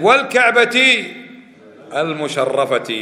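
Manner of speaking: loud, slow, drawn-out oath; swearing an oath. Acted. Teacher tests students with an oath by the Kaaba, emphatic swearing. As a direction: swear it grandly, stretching the words.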